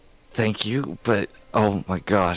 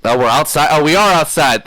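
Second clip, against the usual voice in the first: surprised; 8 semitones higher, 7 dB louder than usual. Real, not acted. Surprised player realizing location.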